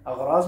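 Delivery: अगराज ending in a z sound; अगराज read the Urdu way, aghraaz; Urdu-style mispronunciation. Shown as a demonstration. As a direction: say अगराज with a buzzing final z. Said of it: "अगराज मत पढ़िएगा".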